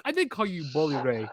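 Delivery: light comic put-on Santino accent; Santino Marella impression. Retelling the wrestler's comeback to Bully Ray, lightly put-on accent. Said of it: "with the accent he has".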